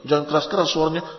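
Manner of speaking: timid wife plea. Retold or imitated. Wife pleads to lower voice.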